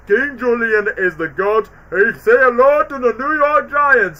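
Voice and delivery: a touch of the lemur king's swagger; lightly voiced King Julian. Fan quotes King Julian's lyrics, light mock voice. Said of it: "when we get to the lyrics".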